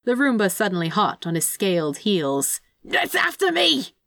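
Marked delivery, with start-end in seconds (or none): 2.8-3.9 very high, drawn-out cry of alarm; panicked yell. A narrator's reading. Demon chased by a Roomba, yelling in panic. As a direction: wail it while being chased. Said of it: "Crowley yelled as he sprinted".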